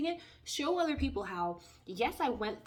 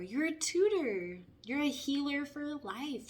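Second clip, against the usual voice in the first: higher, slow, impressed admiring voice; admiring onlookers; 5 semitones higher, slower than usual. Retold or imitated. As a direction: gush at them like a proud onlooker. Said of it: "look at us and say".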